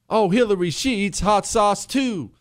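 mocking a voter won over by hot sauce; mock gushing voter.

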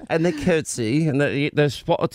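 badly faked British accent, halting; mock British speaker. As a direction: do a poor parody of British speech. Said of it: "Oh my God, it's so bad".

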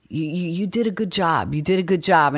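lightly imitated halting compliment; De Niro's stammer. De Niro going out of his way to praise her, lightly imitated stammer. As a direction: stumble over the first word, then repeat the praise. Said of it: "stammering way that he does".

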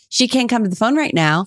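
lightly put-on secretary voice; a hint of a formal secretary on the phone; secretary's voice. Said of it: "a secretary's voice".

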